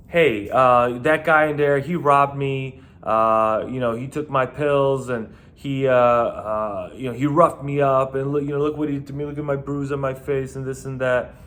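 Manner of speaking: mock a man pleading his case to police; aggrieved complainer. Mimics man complaining to cops.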